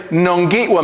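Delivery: Nongitwa with a nasal first syllable, nahn-GIT-wuh; Oneida goodbye. Shown as a demonstration. Teacher showing class the Oneida goodbye, clear and even. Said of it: "If I were leaving, you would say".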